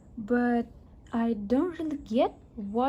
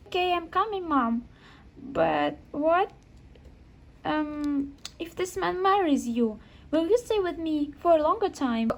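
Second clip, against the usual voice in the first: put-on higher hopeful little boy; a small son asking mom a hopeful question; boy asking his mother about the man; child voice; 4 semitones higher than usual. Son asks mother about her date.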